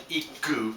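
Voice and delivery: IKU with the K doubled, a held stop before it; doubled k sound. Shown as a demonstration. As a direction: hold the k in iku, then release. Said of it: "You can double up a k sound".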